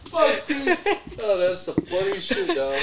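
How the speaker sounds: after laughing hard. Real, not acted.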